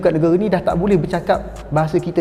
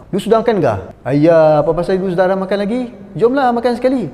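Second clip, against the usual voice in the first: mock Chinese Malay pidgin. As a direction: put on a pidgin Malay like talking down to a Chinese friend. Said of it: "kita bertukar". (tiruan pelat pidgin Cina, lebih kuat dan tinggi)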